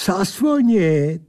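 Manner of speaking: high, drawn-out creature answer; slow put-on creature voice; accented odd creature. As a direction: stretch the word out tauntingly in character.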